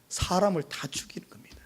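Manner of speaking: hushed grave whisper. Real, not acted. Preacher warns his flock in a whisper. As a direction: drop to a whisper to make it sink in.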